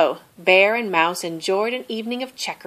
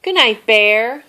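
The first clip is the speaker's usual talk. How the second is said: soft call; 3 semitones higher, 5 dB louder than usual. A narrator's reading. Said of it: "Mouse called softly".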